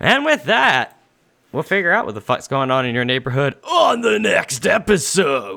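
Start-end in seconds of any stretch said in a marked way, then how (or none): 3.6-5.6 delivery like a wrestling promo. Podcast host signing off and teasing the next episode: wrestling promo voice. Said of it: "I was trying to do it like a wrestling promo".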